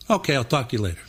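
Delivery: Bruce. Retold or imitated. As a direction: dismiss it as the high-voiced Philly guy. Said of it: "talk really high voice like this".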